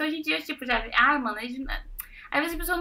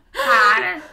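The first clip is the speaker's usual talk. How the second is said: laughing protest; 8 semitones higher, 7 dB louder than usual. Real, not acted.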